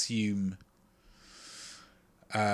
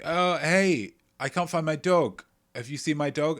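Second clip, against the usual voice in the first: a touch higher neighbor asking for a lost dog; lightly voiced neighbor; 6 semitones higher, 4 dB louder than usual. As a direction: lightly play the worried neighbor.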